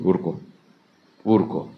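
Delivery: softly acted daughter consoling; low, soft comforting words with pauses; soothing hush. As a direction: gently hush a crying father. Daughter hushes her crying father.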